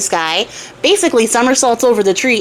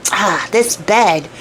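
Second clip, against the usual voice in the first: fussy tailor; 3 semitones lower, slower than usual. Retold or imitated. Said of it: "the tailor is like".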